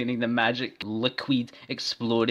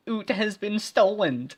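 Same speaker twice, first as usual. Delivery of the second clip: high, loud dismayed line; cried; 11 semitones higher, 4 dB louder than usual. Acted. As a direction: wail the news in a high voice.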